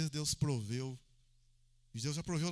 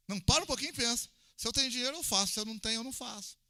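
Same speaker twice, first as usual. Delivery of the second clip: urgent preaching; 5 semitones higher, 3 dB louder, faster than usual. Real, not acted. Pastor urging the church to think.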